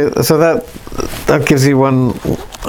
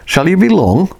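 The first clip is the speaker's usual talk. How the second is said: higher, pressing impatient repeat; more impatiently; 7 semitones higher than usual. Acted. Lionel asking the silent intruder again, impatiently. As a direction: push the question, losing patience. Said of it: "said more impatiently".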